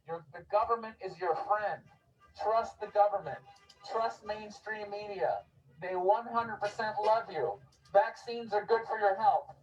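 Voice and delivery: syrupy sarcastic reassurance to the crowd; sarcastic preacher soothing the public; mock reassuring. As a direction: lay on the fake sincerity like a friendly official. Sarcastic street speech mocking authority.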